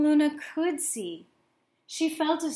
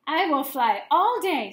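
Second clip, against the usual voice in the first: character voice; 5 semitones higher, 7 dB louder than usual. Acted. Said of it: "told herself".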